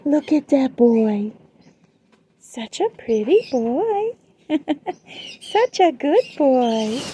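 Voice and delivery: doting praise. Real, not acted. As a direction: drag out the praise for the pet. Drawn-out praise for the bird.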